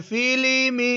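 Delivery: high-pitched model reading; ringing classroom demonstration. Shown as a demonstration. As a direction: lift the voice for a pupil to copy. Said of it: "ऊंची आवाज में".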